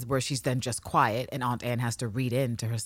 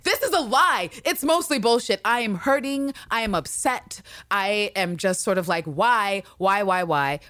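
high, hammed-up heartache; hammed-up anguish; 5 semitones higher than usual. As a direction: overplay the hurt, higher pitched. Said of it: "to the camera that's like".

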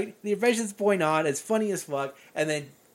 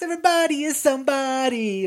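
higher, proclaimed like a rally cry; mock inspirational slogan; 6 semitones higher than usual. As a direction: announce it like a motivational poster. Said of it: "this whole inspirational thing".

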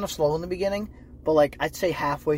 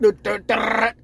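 imitated effect noise; 6 semitones higher, 7 dB louder, slower than usual. Imitating the eye thing happening.

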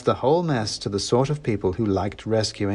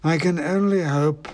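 snooty bored cat; 8 semitones higher than usual. A narrator's reading. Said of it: "said the cat".

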